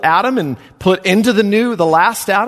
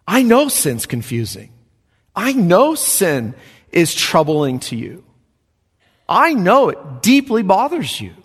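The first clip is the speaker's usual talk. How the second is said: voicing Paul; 3 semitones higher than usual. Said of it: "says Paul".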